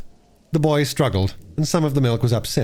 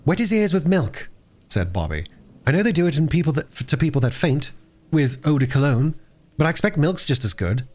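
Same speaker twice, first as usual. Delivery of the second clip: lightly voiced girl, pitched higher; Bobby, earnest child; 6 semitones higher than usual.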